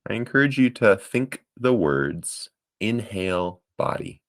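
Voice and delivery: unhurried meditation guide with long pauses; guided meditation. Acted. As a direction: guide listeners gently through each breath. Leads breathing meditation.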